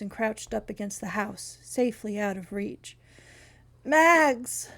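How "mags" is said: hoarse croaking call; croaked. Acted. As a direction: croak the name out. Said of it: "I croaked".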